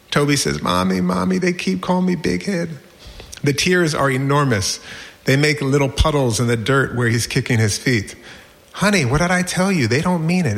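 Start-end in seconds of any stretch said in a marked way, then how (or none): 0.6-2.7 lightly voiced whining child, higher pitch; mock-tearful kid, only a touch of crying; inconsolable little boy. Toby complains to mommy a third time, inconsolable. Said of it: "this time inconsolable". 8.7-10.6 lightly voiced mother, a bit higher; a hint of motherly insistence; insistent mom. Mom to son kicking dirt, insistent.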